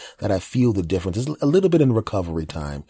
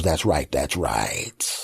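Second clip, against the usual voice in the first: slow smug back voice; 4 semitones lower, much slower than usual. Retold or imitated.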